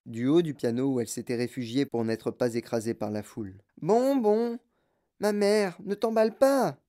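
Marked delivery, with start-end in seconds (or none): 3.8-6.8 put-on bratty girl shouting. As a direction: shout back at mother like a brat. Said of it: "hurla miss Beauregard".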